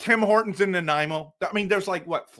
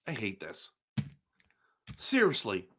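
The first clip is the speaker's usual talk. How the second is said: much lower, much softer groan of words; deflated; 8 semitones lower, 9 dB quieter than usual. Real, not acted. Streamer crushed by another Flames pull, low and soft. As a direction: let it sink out of you, defeated. Dejected after pulling Flames cards.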